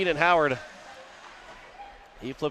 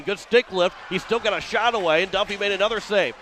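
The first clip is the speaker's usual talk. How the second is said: louder, higher burst for the save; excited call; 4 semitones higher, 3 dB louder than usual. Real, not acted. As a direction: punch up the call as the save comes. Sudden save sequence call.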